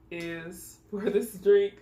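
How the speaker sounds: slow, chuckling through the words; laughing. Real, not acted. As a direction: laugh as you say it. Laughing while describing burp test.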